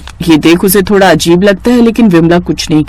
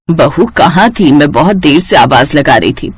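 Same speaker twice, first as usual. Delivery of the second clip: lightly voiced mother-in-law; 4 semitones lower than usual. Mother-in-law asks mildly.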